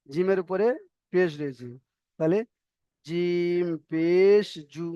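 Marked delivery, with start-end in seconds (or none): 3.0-4.9 no lengthening on the last জু; short final vowel. Shown as a demonstration. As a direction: slowly stretch জিম পেশ, end on a brief জু. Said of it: "জু কোনো টান হবে না".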